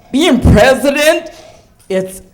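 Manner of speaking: high, slow mock Buckwheat voice; Buckwheat impression. Comic mimics the president sounding like Buckwheat, slow and high. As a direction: drawl it like Buckwheat. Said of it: "I wanna hear him say".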